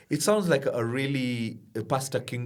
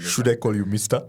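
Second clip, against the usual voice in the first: put-on Ugandan accent; 3 semitones lower, 3 dB louder than usual. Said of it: "and his accent".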